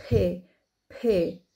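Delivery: بي with a puff of breath; بي breathed out like an H after the P; aspirated German P. Shown as a demonstration. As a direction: push air out hard on بي. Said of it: "الحرف ده نحاول نتقله شوية واحنا بننطقه".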